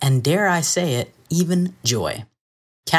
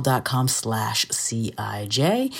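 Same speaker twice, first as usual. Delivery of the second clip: whispered; 4 semitones lower, 5 dB quieter, slower than usual. Real, not acted. Whispered web address in ad.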